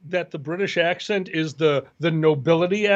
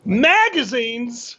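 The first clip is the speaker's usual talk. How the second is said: drawn-out question; 3 semitones higher, much slower than usual. Acted. Answers cue in call-and-response bit.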